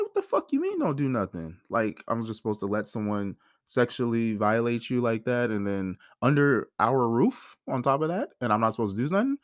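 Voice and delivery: retelling a disbelieving, angry reply; mock incredulous rant at being told to do nothing; incredulous outrage. Retold outrage at being told wait.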